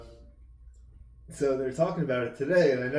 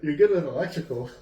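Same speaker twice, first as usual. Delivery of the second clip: surprised; 7 semitones higher, 6 dB louder than usual. Real, not acted. Surprised at electrical claim.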